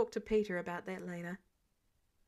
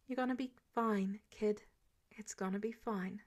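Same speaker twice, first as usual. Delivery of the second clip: reassuring; 4 dB quieter than usual. Acted. Tony reassuring fading Peter.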